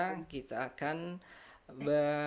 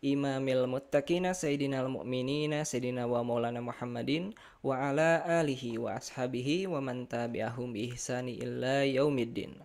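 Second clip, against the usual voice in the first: formal Arabic recitation. Acted. Opening Arabic recitation of lesson.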